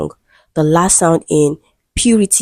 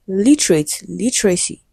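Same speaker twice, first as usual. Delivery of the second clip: "literate, literacy", each stressed on "lit"; first-syllable stress. Shown as a demonstration. Teacher giving students stress examples, first syllable stressed in "literate" and "literacy". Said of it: "stressed on the first syllable".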